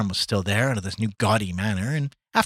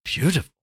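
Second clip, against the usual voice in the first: "Beautiful" pitched up and louder, savoured; lingering on the word; 9 semitones higher, 5 dB louder than usual. A narrator's reading. Gallagher savours "Beautiful" with his drink, lingering on the word. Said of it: "pausing on the word and on the flavor".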